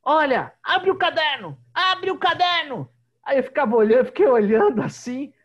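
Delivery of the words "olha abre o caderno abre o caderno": much higher and louder, bossy schoolteacher voice; a child mimicking her teacher, shouting orders; little girl playing bossy teacher. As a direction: boss the class around like a strict little teacher. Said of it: "a menininha chegava e falava assim".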